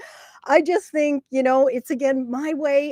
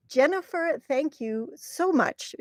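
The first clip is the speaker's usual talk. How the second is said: soft, tearful thanks; real choked-up gratitude, softer and slower; about to cry; 3 semitones higher, 4 dB quieter than usual. Real, not acted. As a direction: thank her gently while holding back tears. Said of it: "oh, I'm gonna cry".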